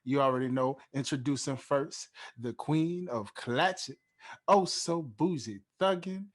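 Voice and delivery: slow, drawn-out announcer build-up to the name; hype host introduction. Acted. Podcast host hyping up his co-host, announcer style. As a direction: hype up the guest like a showman, stretching her name.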